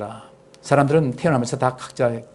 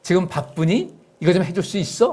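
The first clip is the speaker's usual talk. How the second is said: polite request; 4 semitones higher than usual. Shown as a demonstration. A parent politely asking a child for a favor, gently. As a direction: ask with respect, passing the ball. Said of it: "그거보다도".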